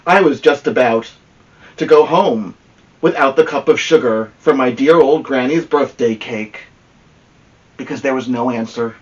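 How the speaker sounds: a hint of a smug wolf telling his side; wolf narrator. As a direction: tell it as the misunderstood wolf, chummy and sure of himself.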